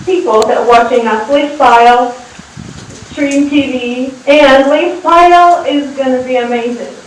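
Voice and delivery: put-on English with a light Russian accent; villain lines in a Russian accent. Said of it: "I can add my Russian accent like that".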